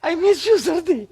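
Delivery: high, drawn-out mock child voice; modern kid. Ice-cream eating kid addressing a cold, high slow mimicry. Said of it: "અત્યારનું છોકરું રાજભોગ કેસર પિસ્તા ice cream ખાતો હોય".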